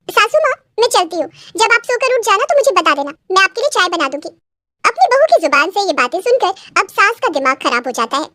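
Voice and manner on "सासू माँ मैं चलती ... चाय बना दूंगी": lightly voiced, higher bahu; a hint of a breezy young bride; cheeky daughter-in-law. Bride offering her mother-in-law tea, lightly cheeky.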